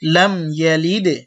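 লাম ইয়ালিদে said slowly, the দ bouncing; slow teacher's model; slow model phrase. Shown as a demonstration. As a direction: read slowly for learners to copy. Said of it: "আপনারা একটু চেষ্টা করেন".

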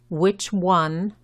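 "Which" said with a short, lax English i. Shown as a demonstration. Teacher models "Which one" for Spanish speakers, short i. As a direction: keep the vowel of "Which" short. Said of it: "la I es corta".

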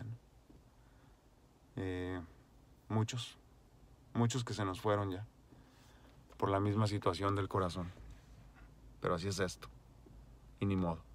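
quiet, moved and grieving; choked up. Real, not acted. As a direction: hold back tears as you speak. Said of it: "Perdón, es que vinieron a mi mente".

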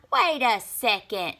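loud urgent call; crying out. A narrator's reading. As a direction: stop them, alarmed. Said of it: "cried Half-Baked Bean".

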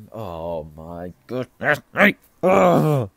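real loud, drawn-out exasperation ending in a groan; exasperated. Real, not acted. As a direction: let frustration at your own slips swell loudly. Reader exasperated at own slips.

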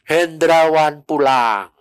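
slow, drawn-out calling, no real shout; mild retold cry. Angels cry out that Hendrawan goes home, mild retold cry. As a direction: imitate a proclamation with long stretched words. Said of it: "Terus teriak-teriak".

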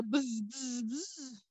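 soft buzzing like a bee. A narrator's reading. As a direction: buzz it softly. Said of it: "decía".

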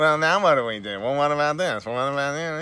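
whiny New York Jewish griping. Retold or imitated. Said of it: "the griping of the Hebrews".

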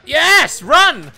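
loud, punchy exclamations; excited cheer. Real, not acted. Player spotting the hoped-for Nia, excited shout. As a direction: cheer each word out high and loud.

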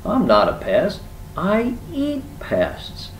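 high-pitched indignant woodpecker; shouted retort. A narrator's reading. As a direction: call it down, ending high and drawn out. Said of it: "Woodpecker shouted down at him".

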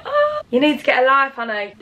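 high sassy scold at herself; sassy self-mock. Vlogger teasing herself, mock sassy scold. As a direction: tease yourself like a sassy friend.

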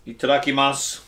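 "itadakimasu" said the Japanese way, ee-tah-dah-kee-mahs; "itadakimasu" with crisp Japanese syllables; Japanese pronunciation. Shown as a demonstration. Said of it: "you say".

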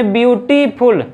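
ब्यूटीफुल pronounced part by part; syllable demo. Shown as a demonstration. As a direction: sound out ब्यूटीफुल in its parts, ब्यूटी-फुल. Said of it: "इसको कितने बार बोल दिया".

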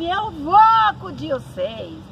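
high, loud, slow call. Retold or imitated. Uncle shouting back that he is coming to help, high slow loud call. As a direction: promise help at the top of your voice. Uncle answers the boys' cries.

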